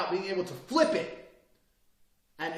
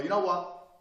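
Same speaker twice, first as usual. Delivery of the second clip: raised voice; 3 semitones higher, 4 dB louder, slower than usual. Acted. First take before the calm drop.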